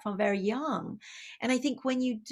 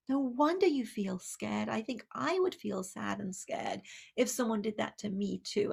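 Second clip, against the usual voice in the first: soft and reassuring; a parent showing the child that the feelings make sense; a quiet, tender comfort; gentle parent; 3 dB quieter than usual. Acted.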